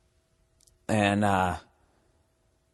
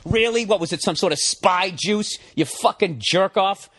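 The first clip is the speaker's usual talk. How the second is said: high, slowed mocking sarcasm; scornful mock disbelief; sarcastic; 5 semitones higher than usual. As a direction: drag the words out with scorn. Sarcastic retort to the drunk.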